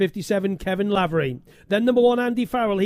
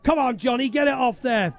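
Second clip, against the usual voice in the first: raised, eager calling out to the riders on the podium; lively commentator urging the winners on; excited podium cheer; 5 semitones higher than usual. Real, not acted. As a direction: egg them on to spray the champagne. Podium champagne moment, cheering riders on.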